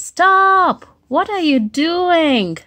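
high, loud cry of Stop; alarmed shout. Acted. Dinosaur yells at friend about to scratch, loud and high. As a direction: halt him before he scratches.

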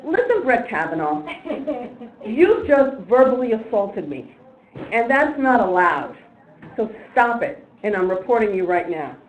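firm, deliberate public scolding; emphatic retold reprimand, word by word; stern telling-off. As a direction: lay down the law to a rude stranger. Retold telling-off of rude passenger.

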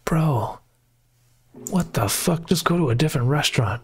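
exasperated what-the-heck reaction; incredulous outburst. Real, not acted. Reacting to the reviewer's patience, incredulous.

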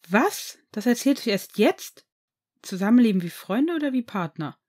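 can't believe he wasn't told; stunned surprise. Acted. Boyfriend learning gossip late, indignantly curious. Friend hides news, boy stunned.

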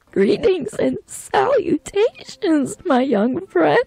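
slow, high, theatrical welcome; hammed-up, drawn-out high voice; grand character greeting. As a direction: welcome a young friend in a lofty put-on voice. Plays a greeting character, cracks up.

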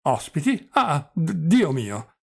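put-on doddering old prince.

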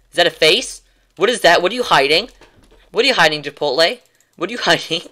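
talking to the dog. Real, not acted. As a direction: tease the dog about what's under his chin.

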